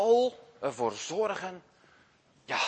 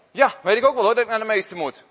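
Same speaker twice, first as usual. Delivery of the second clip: annoyed outburst; 5 semitones higher, 8 dB louder, faster than usual. Acted. Boy grumbling aloud to himself.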